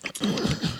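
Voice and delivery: quick whispered bat clicks; bat clicking noise. Shown as a demonstration. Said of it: "that's exactly the bat noise".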